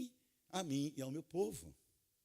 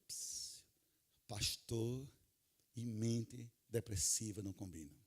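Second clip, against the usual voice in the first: hushed, confiding aside; mock secretive hush; 10 semitones lower, 6 dB quieter, slower than usual. Preacher confiding to the pastors, in a hushed voice. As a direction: say it low, as if nobody may record it. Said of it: "fala baixinho".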